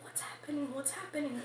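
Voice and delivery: softly murmured worried question; retold whisper. Person in line whispering anxiously to the others. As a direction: hush it like frightened people in line. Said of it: "whispering to each other".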